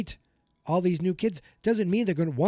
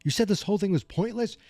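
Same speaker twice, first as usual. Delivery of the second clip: incredulous; 5 semitones higher, faster than usual. Retold or imitated. Mike shocked by the quarrel.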